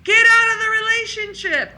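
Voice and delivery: a high insistent inner voice telling the truth; inner wisdom voice. Retold or imitated. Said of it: "inner wisdom who's saying".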